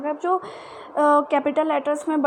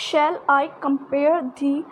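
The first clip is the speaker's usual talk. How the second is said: slow recited line; slow verse reading; poetry recitation; much slower than usual. Shown as a demonstration. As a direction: read the verse slowly. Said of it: "मैंने आपको समझाया है".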